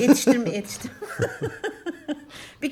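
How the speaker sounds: laughing. Real, not acted. Joking about catching up.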